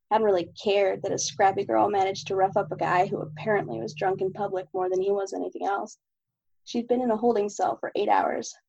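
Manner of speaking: steady, even novel reading; story narration. Acted. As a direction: read the chapter aloud evenly. Reads chapter of own novel.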